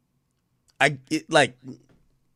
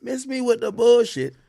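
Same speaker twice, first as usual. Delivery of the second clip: loud quote; 10 semitones higher, 8 dB louder than usual. Retold or imitated. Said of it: "She said".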